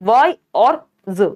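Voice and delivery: वाई and ज said slowly as separate pieces; slow sound-by-sound demonstration of वाई और ज; split into sounds. Shown as a demonstration. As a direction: break "wise" into वाई, then a lone ज "z". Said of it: "ये दो syllable यहाँ पे भी".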